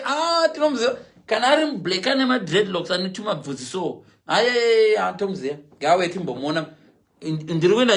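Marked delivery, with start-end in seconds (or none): 0.0-1.0 high, excited mimicry of the coaches; mock excited recognition. 4.3-5.6 high eager yes-yes; mock eager agreement. Mimicking coaches.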